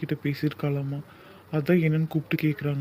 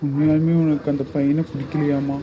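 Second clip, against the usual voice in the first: louder, insistent coaxing; urging loudly; 4 dB louder than usual. Acted. Father louder, urging his daughter to tell the truth. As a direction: push her to speak up.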